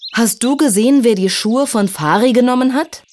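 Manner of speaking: high-pitched, earnest question; little fairy asking. A narrator's reading. Little Silja asks the snake above her, high questioning. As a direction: ask it up high like a small fairy.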